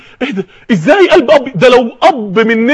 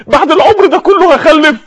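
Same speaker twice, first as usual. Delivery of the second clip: high-pitched incredulous question; astonished, pitch lifted; acted disbelief; 5 semitones higher than usual. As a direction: ask it in raised-voice amazement. Acting Sarah's disbelief at late birth.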